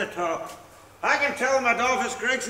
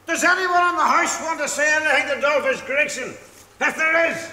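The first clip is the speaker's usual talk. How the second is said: slurred, swaggering challenge to the whole house; drunken boast; 3 semitones higher than usual. Acted. Drunk husband boasting to the lodgers, swaggering drunken challenge. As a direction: puff up like a drunk daring anyone to cross him.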